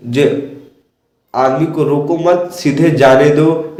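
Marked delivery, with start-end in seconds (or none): 1.8-3.8 "रोको मत" grouped, then slow "सीधे जाने दो"; pause after मत. Shown as a demonstration. Teacher explaining he may go on, pause after मत. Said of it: "उसे रोकना नहीं है".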